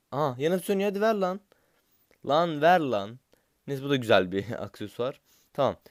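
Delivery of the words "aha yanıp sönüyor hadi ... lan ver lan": high, loud pleading at the box; excited begging. Real, not acted. Gamer begging the box for Sukak, high excited shouting. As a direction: shout at the screen to give Sukak.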